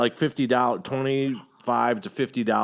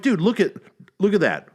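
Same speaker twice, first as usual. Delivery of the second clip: exasperated pleading; 5 semitones higher, 3 dB louder than usual. Retold or imitated. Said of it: "I'm like".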